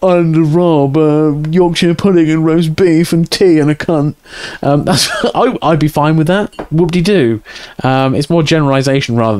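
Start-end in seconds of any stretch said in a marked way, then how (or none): 0.0-4.1 hammed-up stereotypical English voice; mock an Englishman with an exaggerated English accent; caricature English accent. Streamer showing chat how he could be mocked, caricature English accent. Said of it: "racist voices".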